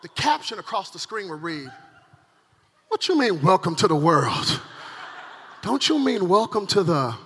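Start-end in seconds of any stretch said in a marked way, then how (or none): 2.9-7.2 mildly affronted, falling challenge; indignant newborn. Acted. Newborn baby talking back to its parents, mildly indignant. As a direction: throw the words back in mock disbelief. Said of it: "transcribe the cry of every newborn baby".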